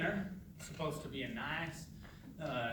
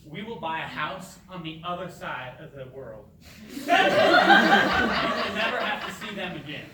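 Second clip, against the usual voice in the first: laughing promise; 3 semitones higher, 14 dB louder than usual. Acted. Son laughs, promises escape.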